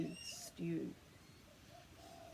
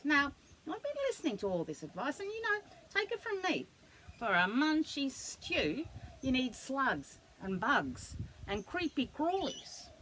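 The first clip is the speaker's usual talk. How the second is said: fast, higher know-it-all; a hint of a bossy echidna; 5 semitones higher than usual. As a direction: rattle off the advice like an expert. Echidna gives advice.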